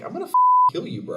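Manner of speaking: very high, fast, loud mock threat; high-pitched hammed-up killer warning; mock squeaky threat. Retelling assassin's warning as quote.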